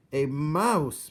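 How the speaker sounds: loud, high scornful bellow. A narrator's reading. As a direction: bellow it in royal outrage. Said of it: "bellowed the king".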